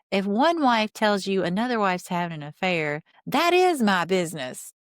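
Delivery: half-yell it, imitating an outraged husband; mock indignant outburst. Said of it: "Cody is screaming at the camera".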